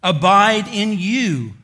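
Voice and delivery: preacher leaning on the key word abide; stress on abide. Shown as a demonstration. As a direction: press abide slowly, word by word. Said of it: "there's the word".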